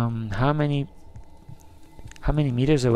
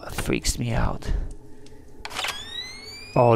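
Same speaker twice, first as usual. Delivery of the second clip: usual speaking voice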